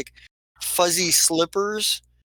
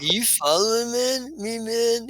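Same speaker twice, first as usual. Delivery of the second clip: higher-pitched goblin challenge; questioning goblin; 7 semitones higher than usual. Acted. Goblin confronting his follower, high-pitched questioning. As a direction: ask it high, as a goblin who's been tailed. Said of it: "he's like".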